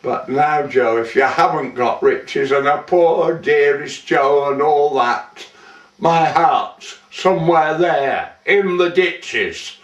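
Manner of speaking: put-on poem recited as a young lady, lilting lightly; lightly voiced young lady. Young lady writing to Joe back on Poverty Flat, lightly acted verse. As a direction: recite it as a lady's chatty letter in verse. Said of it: "believe that I am a, a young woman, lady".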